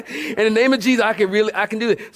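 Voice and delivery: words breaking into laughter; laughing. Real, not acted. Preacher cracking up at his own joke while repeating the vow.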